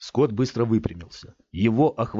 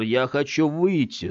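put-on slow childish plea, cross and frightened; childlike half-angry, half-scared; 5 semitones higher than usual. Scott pleading to get out like a child, half angry half scared. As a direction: sound like a scared sulky kid. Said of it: "сказал Скотт голосом ребёнка, полусердитым, полуиспуганным".

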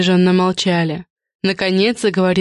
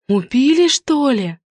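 gasping; 7 semitones higher, slower than usual. A narrator's reading. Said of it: "охнула Галя".

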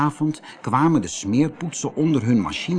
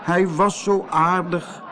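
slow, raised mournful whine; wailing; 4 semitones higher than usual. Acted. Keesje mourns lost Koosje, slow high wail. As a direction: lament it, drawing the words out. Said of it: "jammerde Keesje".

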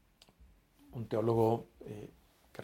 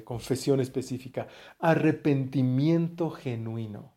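dictating. Shown as a demonstration. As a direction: dictate it so they can write it down. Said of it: "Apúntenla por ahí". (dictando despacio, alargando "específica")

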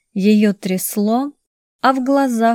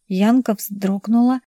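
ordinary delivery, nothing marked

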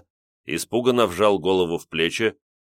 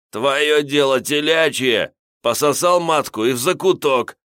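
hoarse gurgling voice; 7 semitones higher, 5 dB louder than usual. Acted. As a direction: croak it out through a gurgling throat. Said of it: "хриплым булькающим голосом".

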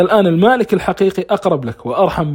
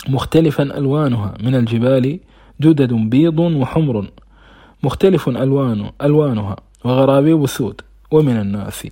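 Quran recitation; 3 semitones lower than usual. Acted. Preacher citing scripture to listeners as proof, measured recitation. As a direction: recite the verse solemnly, stretching key words. Recites a verse mid-talk.

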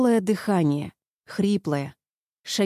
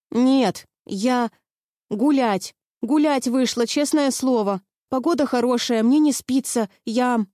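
higher, scared, stumbling excuses; frightened pleading; 5 semitones higher than usual. Acted. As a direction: blurt excuses out in fear. Frightened girl makes excuses to captor.

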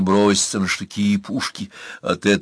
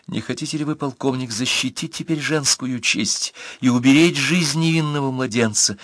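mysterious; 5 semitones higher than usual. Acted. Girl's strange plea.

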